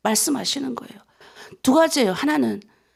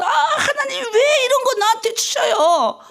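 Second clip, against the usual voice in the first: tearful complaint; 11 semitones higher, slower than usual. Retold or imitated. Retold crying complaint to God.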